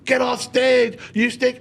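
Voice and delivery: high-pitched imitation of screaming hecklers; mock heckler yell. Audience heckling a bombing comic, high-pitched mock yell. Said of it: "people are screaming".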